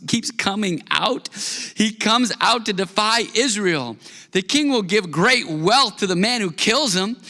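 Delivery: measured, lifted Bible reading; preacher reading scripture to the congregation. Acted. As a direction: read the passage with weight and care.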